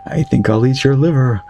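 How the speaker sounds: slow, drawn-out ghostly villain voice; slow theatrical villain menace. Acted. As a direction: loom over them with hammy menace. Ghost threatens to eat liver.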